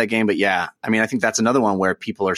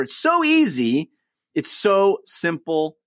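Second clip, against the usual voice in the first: excited; 5 semitones higher, slower than usual. Real, not acted. Ad read enthusiasm.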